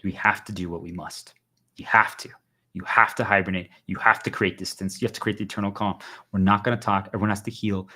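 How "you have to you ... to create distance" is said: urgent whispered insistence. Real, not acted. To stream viewers, urging them to hibernate, whispered. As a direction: lean in and whisper the order.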